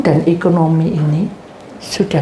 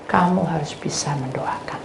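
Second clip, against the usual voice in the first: whispered; 3 semitones lower, 6 dB quieter than usual. Acted. God's voice whispered.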